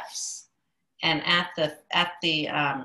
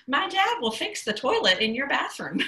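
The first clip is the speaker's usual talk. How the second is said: laughing through phrase; 8 semitones higher than usual. Real, not acted. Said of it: "All right, my dad".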